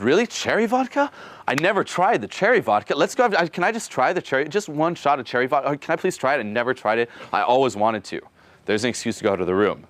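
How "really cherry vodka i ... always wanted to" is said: high, hammed-up excitement over cherry vodka; mock eager pleading. Coach acts his own plea to a girl, hammed-up excitement. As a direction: beg playfully, voice jumping up. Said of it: "I'm like".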